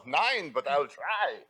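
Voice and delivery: slow, stretched-out German accent; game attempt at a German accent; hammy German, drawn out; mock German accent. Shown as a demonstration. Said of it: "throw out whatever German words you know".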